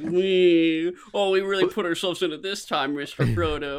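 lightly mocking hobbit whine; a touch of droning complaint, imitated; Sam's whine. Podcaster imitating the comical cartoon hobbit, lightly put-on whine. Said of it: "And he, like, he whines".

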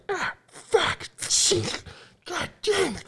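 high, strained far-off curses; mock distant cursing. Retelling curses heard from the outside, high and strained. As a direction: squeak out the panicked swearing.

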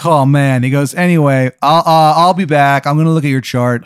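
a surfer dude playing doctor; surfer bro doctor. Doctor Daniel Dude greeting his patient, bro voice.

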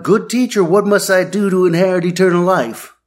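high, breathless-run blurt in one go. Retold or imitated. Rich man rushing up to Jesus, blurting it out. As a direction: imitate an over-eager interrupter blurting a question. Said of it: "and blurts out".

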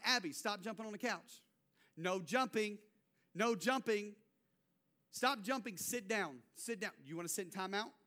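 retold parental scolding, firm commands; mild mock telling-off; stern dad. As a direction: tell a small child off, firmly. Parent scolding jumping child in retold scene.

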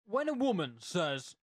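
slow, deliberate read-out; emphatic question reading. Acted. Co-host reading a listener's question, emphatic.

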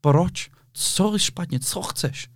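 high, baffled mock voice, fading to a breath; puzzled scammers. Scammers baffled at being filmed, high puzzled mock voice. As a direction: play the clueless crook asking what's wrong. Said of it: "Oni furt říkají".

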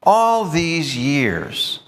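resentful paraphrase. Retold or imitated. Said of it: "it's almost as if he's saying".

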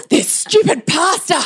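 high, drawn-out hammed-up fury; mock tantrum. Mother throwing shopping to copy her cranky son, mock tantrum. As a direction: play up a child's tantrum, stretching the words high. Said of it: "was having a tantrum".

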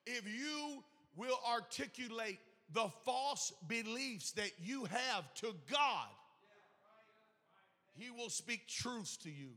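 slow, deliberate, spaced out for note-taking; slow it down so they can write it; said slowly. Shown as a demonstration. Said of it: "I'm gonna say it slow this time".

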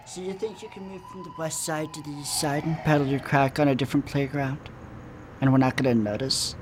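weird cop villain voice. Acted. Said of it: "How do you talk like that?".

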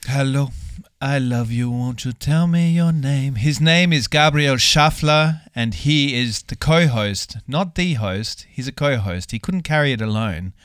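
slow, drawn-out showman intro; announcer voice. Acted. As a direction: announce him like a ring host. Hosts announce the co-host.

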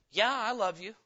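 offhand, half-hearted "yeah" rising at the end; offhand I love you. Shown as a demonstration. Preacher shows his son how tone changes meaning, offhand. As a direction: toss it off with little conviction. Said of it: "we have tone in our communication".

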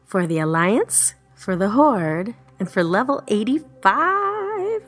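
slow, building rally cry; rally the troops, word by word. Real, not acted.

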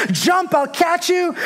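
high, stretched-out call without real volume; retold yell. Dad calling his son off the burning roof, retold yell. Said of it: "his dad kept yelling".

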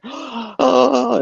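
high excited gasp of joy; giddy squeal. Retold or imitated. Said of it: "giggling schoolgirls".

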